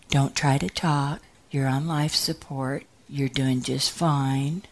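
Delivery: soft, steady reassurance; lightly voiced calming doctor. Acted doctor reassuring patient.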